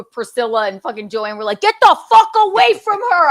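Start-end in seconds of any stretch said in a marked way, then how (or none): 1.6-3.3 high, loud warning-off yell; protective yell. Retold or imitated. Friends chasing off a man at the club, retold protective yell. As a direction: shout them away from your friend.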